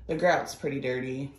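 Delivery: talking around a swollen tongue; thick-tongued, slightly slurred speech. Real, not acted. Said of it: "Sorry if my voice sounds a little weird today".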